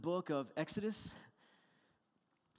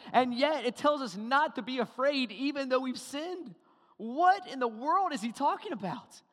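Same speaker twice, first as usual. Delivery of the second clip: incredulous preaching; 6 semitones higher, 7 dB louder than usual. Real, not acted. Preacher marvels at puzzling verse.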